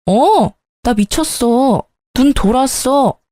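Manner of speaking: slow, deliberate, dangerous words; slow cold warning to the fiancé; slow menacing. Acted. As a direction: drag each word out as a threat. Heated quarrel with fiancé.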